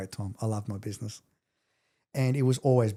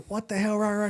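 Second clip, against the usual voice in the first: retold yell at ex; 9 semitones higher than usual. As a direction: replay the outburst high and sharp. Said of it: "And I scream at her".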